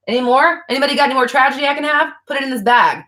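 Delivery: high, fast, greedy mock voice; mock eager. Mocking someone collecting tragedy.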